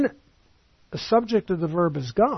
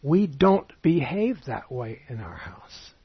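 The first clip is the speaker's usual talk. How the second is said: mother's gentle reproof; slower than usual. Retold or imitated. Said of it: "She said".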